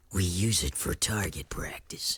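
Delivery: slow, dry whispered jab; deadpan whisper. Acted. Torn teases Daxter about the sign, whispered deadpan. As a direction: breathe it out as a flat put-down.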